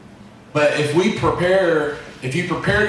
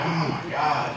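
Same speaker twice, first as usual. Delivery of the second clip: put-on much softer, deflated kid; mortified kid; 7 dB quieter, slower than usual. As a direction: let it drop under your breath, embarrassed. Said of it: "And I'm like".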